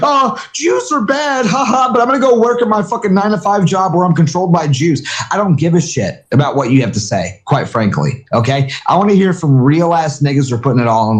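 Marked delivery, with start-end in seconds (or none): 0.0-5.1 raised, slowed mock-breezy voice; light sneering mimicry; mocking quote. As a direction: parody a half-hearted poster. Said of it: "be like".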